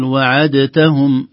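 "وعدتهم" with a separate, clear dal, slow chant; wrong pronunciation. Shown as a demonstration. Teacher shows the unassimilated dal error. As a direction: sound the dal in "وعدتهم" apart. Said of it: "لو كان عليها شيء سنقول".

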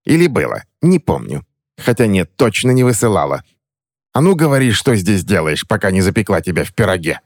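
high mocking hag voice, building to a shout at A ну говори; cackling witch toying with her prey; threatening crone. Witch threatens to bake the boy in a pie, high and mocking.

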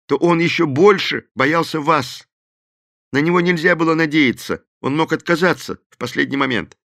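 a frightened man owning up; Thorn, reluctant and a little scared; nervous Thorn. A narrator's reading.

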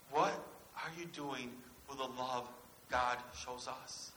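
slow it right down on "What are you doing with the love God shows us?"; slow, deliberate repeat. Shown as a demonstration. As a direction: ask it slowly, letting every word land. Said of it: "repeated slowly for emphasis".

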